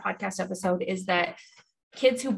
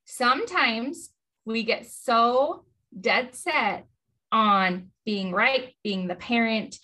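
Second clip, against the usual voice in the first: slow; much slower than usual. Real, not acted. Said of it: "I'm using air quotes".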